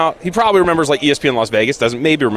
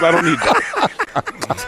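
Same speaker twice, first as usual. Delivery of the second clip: slow New York Italian drawl; lightly voiced New York wiseguy; New York Italian accent; 3 semitones higher, much slower than usual. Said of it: "That was a good impersonation".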